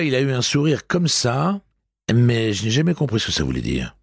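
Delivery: a polite clerk answering the commissaire; lightly voiced deferential receptionist; hotel receptionist. A narrator's reading. Receptionist on the phone.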